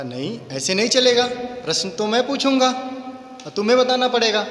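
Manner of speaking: a hint of an imperious king; insistent king. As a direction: lay down the rule as the king. King insists on asking questions.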